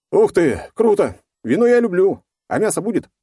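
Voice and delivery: high, loud, gleeful outburst; excited. A narrator's reading. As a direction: blurt it out like an eager kid. Presumed-dead hero pops up cheerfully.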